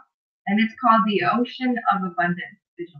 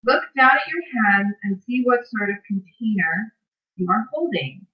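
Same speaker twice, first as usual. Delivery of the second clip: guided visualization reading. Acted. Host reads a bedtime visualization to live viewers, measured guided-meditation delivery. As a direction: lead listeners through it phrase by phrase, unhurried.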